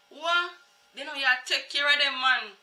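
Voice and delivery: put-on mother taken aback that the kids are neglected; surprised mother. Mother hearing the lady's claim, high and indignant. Mother's shocked reply to the lady.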